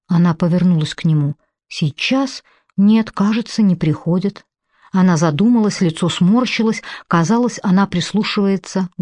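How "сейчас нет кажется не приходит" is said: startled. Acted. Frightened woman, confused.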